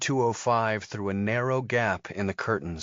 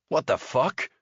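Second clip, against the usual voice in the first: 1 startled outburst; 4 semitones higher than usual. A narrator's reading. Thurston startled by Terry.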